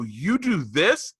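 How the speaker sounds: slow, rising disbelief, imitating the daughters; incredulous kids. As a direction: stretch it out like kids who can't believe it. Daughters' amazed question in story.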